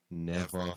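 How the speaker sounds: "never" said for "nether", with v replacing th; th pronounced as v. Retold or imitated. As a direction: imitate saying "never" where "nether" is meant. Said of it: "but you say, like".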